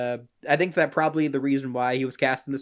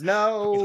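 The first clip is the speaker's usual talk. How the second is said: high, drawn-out mock scream; long, raised "no" in a half-hearted scream; 6 semitones higher than usual. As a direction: imitate a screaming lady without the volume. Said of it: "the lady screams".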